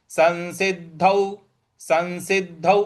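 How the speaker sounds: संसिद्धौ with the anusvara said as न. Shown as a demonstration. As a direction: say संसिद्धौ as सन्सिद्धौ. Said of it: "अनुस्वार का न में उच्चारण". (अनुस्वार न में)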